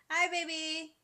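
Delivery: high, loud, delighted hello; real excited cooing hello; affectionate greeting. Real, not acted. Greets someone called baby.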